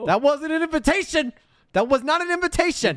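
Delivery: high, loud playful warning; mock stern. Real, not acted. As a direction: shut it down teasingly. Playfully stopping an impression.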